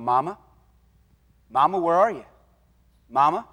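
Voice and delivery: a lightly voiced little boy calling out; lost boy calling mama. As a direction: gently retell the kid calling for mama. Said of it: "started walking down aisles going".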